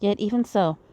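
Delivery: reading visual novel dialogue aloud; lightly acted character lines; game story read in character; voicing game characters. Voices game dialogue between characters.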